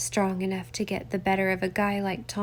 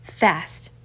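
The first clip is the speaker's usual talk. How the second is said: growled; 3 semitones lower than usual. Acted. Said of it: "Winchester growled".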